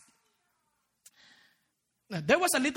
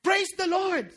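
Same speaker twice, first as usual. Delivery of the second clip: mild mock yell, pitched up; yelled praise; 5 semitones higher, slower than usual. Old lady finding food on the porch, mock yell. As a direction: call out praise in a raised voice. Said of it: "she yelled".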